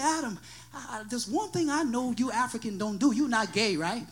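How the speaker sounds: low, hushed, hesitant question; imitating a friend's quiet, awkward aside; confidential friend. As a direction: ask it privately, dropping voice to almost nothing.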